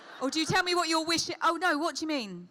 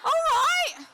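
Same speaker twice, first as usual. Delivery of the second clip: bright, higher, louder greeting; excited all right; 12 semitones higher, 5 dB louder than usual. Real, not acted. Host greeting a young fan, excited.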